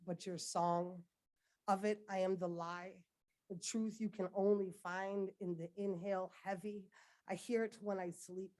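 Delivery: intense, rhythmic poetry slam delivery; rising anguished spoken word, building in force; spoken word poem. Acted. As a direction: perform it like a slam poem to your country.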